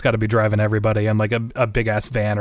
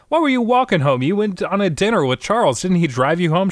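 high-pitched disbelief, easing slightly; acted indignant relatives; mock incredulous questioning; 6 semitones higher than usual. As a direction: grill her in playful astonishment. Acts family questioning Helen incredulously.

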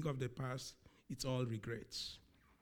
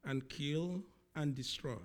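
quoting Jesus; 4 dB louder than usual. Retold or imitated. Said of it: "He says".

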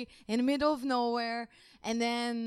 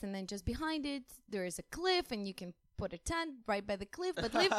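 local giving directions; 3 semitones higher, slower than usual. Retold or imitated. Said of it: "They're like".

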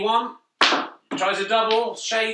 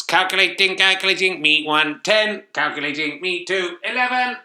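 robot voice; 5 dB louder than usual. Pretend. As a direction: read the score like a machine. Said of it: "robot voice can calculating".

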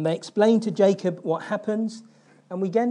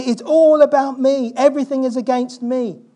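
high whiny mock lament, louder as it goes; self-pity; 4 semitones higher, 7 dB louder than usual. Preacher imitates Jacob's self-pity with a mock whine. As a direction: whine like the whole world is against you. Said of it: "Self-pity".

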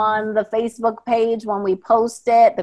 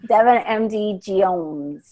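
slow tired name; slower than usual. Shown as a demonstration. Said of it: "say it again like that".

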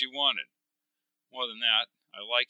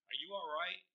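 concerned; 6 semitones higher, 16 dB quieter than usual. Acted. Concerned companion calls to him.

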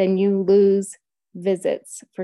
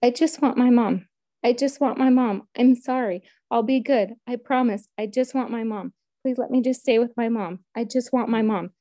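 put-on higher, pleading little-girl voice; retold wail, more plea than scream; imitated screaming child; 4 semitones higher than usual. Three-year-old pulled from her mother, imitated desperate pleading. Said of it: "And she is screaming".

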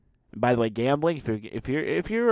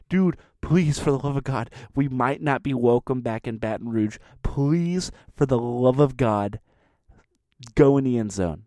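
mock pleading; 3 dB louder than usual. Fans begging the player to go in, mock plea. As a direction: plead for the touchdown in mock despair.

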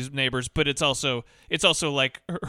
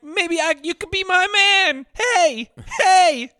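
much higher and louder, calling after him; hammed-up holler after a man walking away; mock yelling; 7 dB louder, slower than usual. Junkie mom yelling after the cop, higher and louder. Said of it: "Like, yelling".

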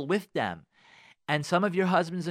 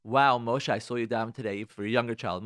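uplifting praise; 5 semitones lower, faster than usual. Acted. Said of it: "talking about lifting the self-esteem".

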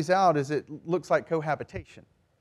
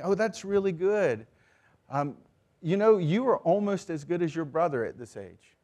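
mildly pitched-up faint praise; backhanded compliment; 2 semitones higher than usual. Acted. Parent slipping a cut into praise, backhanded. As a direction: praise with a subtle jab in it. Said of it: "the little subtle ways of saying".

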